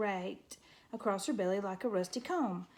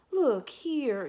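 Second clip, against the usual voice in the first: louder, gruff exclamation; crying out; 4 semitones higher, 7 dB louder than usual. A narrator's reading. Porcupine calling on the mouse, loud and gruff. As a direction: bark it to get her attention. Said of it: "Eurith cried".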